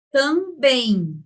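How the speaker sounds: TAMBÉM slowly as tam-beim; syllable by syllable. Shown as a demonstration. Teacher showing the sounds present, drawn-out syllables. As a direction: stretch both syllables of também. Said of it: "aqui nós temos".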